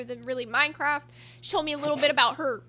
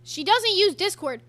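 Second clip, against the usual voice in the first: slower, a bit higher, checking the words; puzzled repeat; 4 semitones higher, 5 dB louder than usual. Real, not acted. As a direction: say it back slowly in disbelief. Repeating what she was told.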